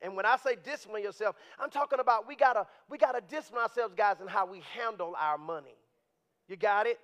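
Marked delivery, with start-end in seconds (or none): none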